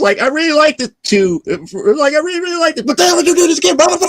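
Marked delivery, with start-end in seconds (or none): 0.2-1.4 lifted way up high, a gushing fan; high squeaky gushing reader; high mock voice. 2.1-4.1 lifted way up high, a gushing fan; high squeaky gushing reader; high mock voice.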